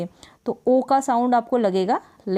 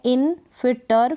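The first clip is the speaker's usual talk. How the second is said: इन, फिर टर spoken slowly, one syllable at a time; 3 semitones higher than usual. Shown as a demonstration. Teacher to students, splitting the word: इन, फिर टर slowly, piece by piece. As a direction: break इंटरलूड into parts slowly: इन ... टर. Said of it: "divide कर सके spellings को".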